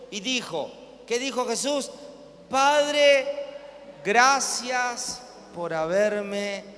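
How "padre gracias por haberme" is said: slow, lifted prayerful voice; Jesus praying. Acted. Preacher voicing Jesus thanking the Father, slow and lifted.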